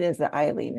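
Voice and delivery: "Eileen" starting with an "eye" sound; name variant Eileen. Shown as a demonstration. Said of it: "you get different variations".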